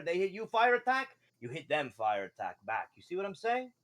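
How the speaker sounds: lightly voiced fish merchant making a pitch; a hint of a fishy salesman; fish man merchant. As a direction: present rare wares, phrase by phrase. Game master pitches sword as merchant.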